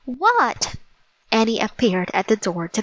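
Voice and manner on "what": high, falling reply; calling back. Acted. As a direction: answer a call with a lifted pitch. Annie answers Jack's call.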